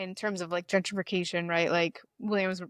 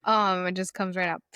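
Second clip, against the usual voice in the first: heated; 6 dB louder than usual. Real, not acted. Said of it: "I get so heated".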